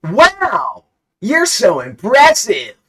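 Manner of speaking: very high, loud squeal of awe; shrieking high excited praise; gushing. Acted. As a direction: gush like a starstruck fan. Player gushes at gunslinger.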